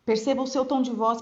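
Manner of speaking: dull, level lecturer's delivery; sleep-inducing monotone. Shown as a demonstration. Teacher imitating a boring college professor, monotone. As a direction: drone it out on one even note. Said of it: "professor na faculdade que falava desse jeito".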